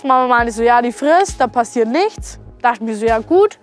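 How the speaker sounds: ordinary talk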